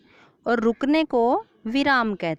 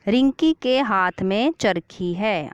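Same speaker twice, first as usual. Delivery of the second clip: example sentence; slower than usual. Shown as a demonstration. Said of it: "अंत में क्या आ गया".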